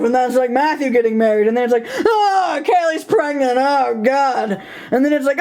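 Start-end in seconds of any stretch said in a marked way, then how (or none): 2.1-4.6 hammed-up cry of dismay, higher; half-laughing mock outcry; mock exasperated yell. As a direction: throw up your hands in mock despair.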